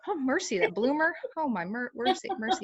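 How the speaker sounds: high, gushing exclamations of delight; excited gushing. Real, not acted. Dreaming aloud of a champion cutting horse, gushing high and delighted. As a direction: swoon over the dream horse.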